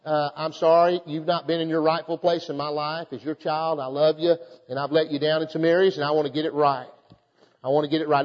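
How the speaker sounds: lightly voiced as if on his face before God; humble prayer. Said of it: "just say".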